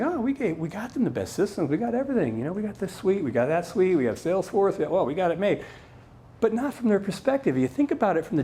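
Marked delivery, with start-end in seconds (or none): 0.0-5.6 lightly mocking boast, pitched up; imitated smug executives. C-suite insisting they gave staff everything, mock self-satisfied. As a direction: rattle off the perks like a pleased boss.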